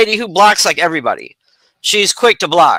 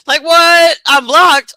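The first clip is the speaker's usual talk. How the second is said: what, why am I blocked; baffled; 7 semitones higher than usual. Retold or imitated. Confused quote at being blocked.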